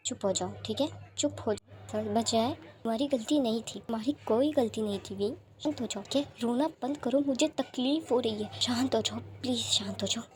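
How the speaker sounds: hushes a crying friend gently; soothing. Acted. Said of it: "विंग को शांत करते हुए कहता है".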